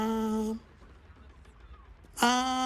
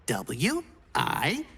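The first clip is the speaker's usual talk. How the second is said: spelling it out; 9 semitones lower, much slower than usual. Pretend. Spelling the word out.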